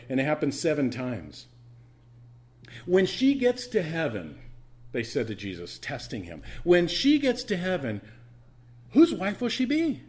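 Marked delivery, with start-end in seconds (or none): 2.9-4.4 higher, louder, slow taunting question; mock Sadducee challenge. Sadducees testing Jesus, taunting and loud. 6.7-10.0 high, loud sneering question; spring the trap question; mock Sadducee challenge. Sadducees testing Jesus, loud taunting.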